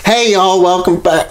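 a tame take of the host opener; wrong intro voice. Acted. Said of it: "I'm doing the wrong voice".

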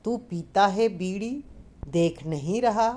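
plain reading voice

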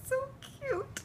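very high, tearful squeak; happy crying. Real, not acted. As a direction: coo through tears, pitch way up. Crying over toy kitten.

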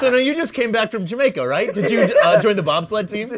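late night host. Retold or imitated. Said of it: "like you're a late night host".

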